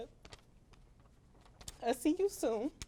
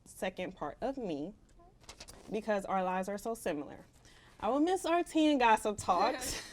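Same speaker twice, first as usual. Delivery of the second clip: reading a farewell letter to a departing friend; 3 semitones lower than usual. Real, not acted. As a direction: read it gently to your friend. Reads farewell letter aloud.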